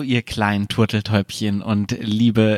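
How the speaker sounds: tiefer, langsamer, schleimiger Ton; schmierig-schleimig begrüßen; schleimige Stimme. Acted. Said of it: "Diese schleimige Stimme". (schleimige, einschmeichelnde Stimme)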